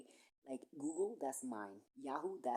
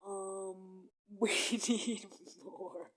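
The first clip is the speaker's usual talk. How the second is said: mocking the officials; 6 semitones higher, 6 dB louder, slower than usual. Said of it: "they were like".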